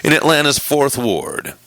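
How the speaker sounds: announcer read with lifted, swooping phrases; punched-up radio delivery. Pretend. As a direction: read the bio like a broadcaster. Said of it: "do this in my radio voice".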